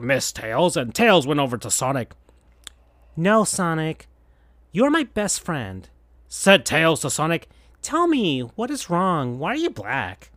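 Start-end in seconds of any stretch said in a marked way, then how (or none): 3.2-10.3 Tails' voice. Acted. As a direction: coax him to open up. Tails pleading.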